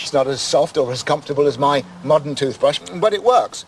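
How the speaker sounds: talking with bits in the mouth; chewing a stick while speaking; mouth full. Real, not acted. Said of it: "I've got all the bits in my mouth".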